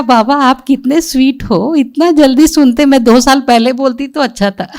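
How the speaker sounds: high, loud, gushing delight at Baba. Retold or imitated. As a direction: squeal it out, thrilled and teasing. Delighted exclamation to Baba on hearing.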